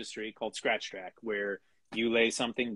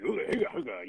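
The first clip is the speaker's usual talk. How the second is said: imitating grunts; 3 dB quieter, faster than usual. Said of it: "making noises".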